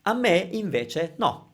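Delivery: A me invece no said slowly, each word clear; slow model phrase. Shown as a demonstration. Teacher repeating the answer slowly for learners. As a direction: drag it out so they catch every word. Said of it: "then I would say".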